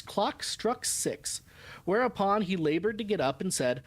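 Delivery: measured, clearly phrased audiobook reading; story narration. A narrator's reading. Woman's journal describing the harbor and old men, story narration. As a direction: read the journal aloud with lively, lilting phrasing. Reads the novel aloud.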